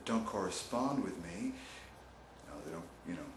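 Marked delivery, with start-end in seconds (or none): 2.5-3.3 softer self-pitying mope, trailing down; hammed-up sulky lament about being ignored; mock whining. Host playfully sulking that nobody knows he's alive, mock whining. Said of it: "Now stop whining".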